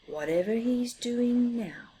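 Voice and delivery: whispered, annoyed grumble; grumbling. Acted. Snappy Big Mouse complaining about Little Mouse, whispered grumble. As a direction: grumble it under your breath. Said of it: "he grumbled".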